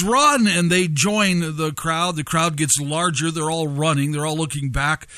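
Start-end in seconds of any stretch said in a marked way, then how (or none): 0.0-0.5 mock yell, pitched up; retold yell. Kid in the running crowd to onlookers, mild retold yell. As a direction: call it out like a kid, not full force. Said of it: "in the crowd yells".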